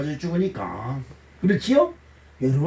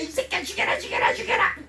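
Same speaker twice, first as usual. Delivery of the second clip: imitated cursing rant; 11 semitones higher, 3 dB quieter than usual. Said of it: "우리 영수님이 자기 남편한테".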